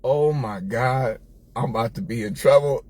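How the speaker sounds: put-on retelling his own boyhood panic, mildly scared; dread. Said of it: "and I said".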